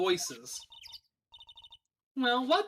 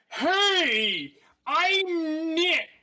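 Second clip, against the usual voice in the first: much louder and higher, calling out; 7 semitones higher, 7 dB louder, much slower than usual. Acted. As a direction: shout the name so the device hears. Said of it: "Maybe I'm not saying it loud enough?".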